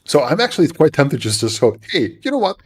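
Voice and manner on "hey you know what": usual speaking voice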